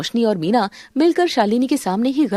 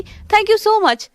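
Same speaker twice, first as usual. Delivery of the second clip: overjoyed thanks; 8 semitones higher, much slower than usual. Acted. Thrilled thanks for handbag.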